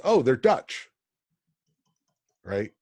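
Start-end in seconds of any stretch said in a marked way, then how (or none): 0.0-0.9 lightly voiced confused settlers, higher; a high, puzzled "oh, they're Dutch"; mock mishearing. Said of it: "got translated as".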